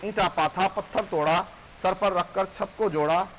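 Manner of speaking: measured verse recital with lifted line ends; poem recitation. Acted. Poet recites a labourer's small wish, declaimed in verse. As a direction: recite it rhythmically to an audience.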